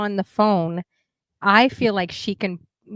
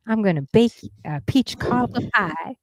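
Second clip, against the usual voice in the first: bad Southern accent. Shown as a demonstration. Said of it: "I can't even do it".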